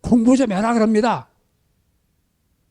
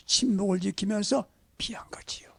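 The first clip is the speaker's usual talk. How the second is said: hushed, softer whispered point; 9 dB quieter than usual. Acted. Preacher whispering the lesson to the congregation. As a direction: drop to a secret whisper.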